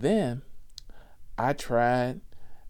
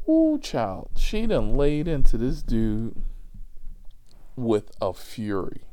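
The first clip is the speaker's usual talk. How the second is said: excited exclamation; 6 dB louder than usual. Real, not acted. Telling listeners how grandma went off, loud and amazed.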